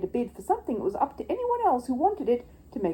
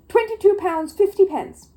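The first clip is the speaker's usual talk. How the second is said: bid called out; 12 semitones higher, 8 dB louder than usual. Acted. Gruber bidding in auction.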